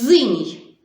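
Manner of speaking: «Зиній» loud, with a buzzing З instead of С; deliberately wrong word. Shown as a demonstration. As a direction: boom out «Зиній» with a wrong voiced З. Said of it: "кажемо звук «з»". (навмисно неправильне «Зиній», голосно)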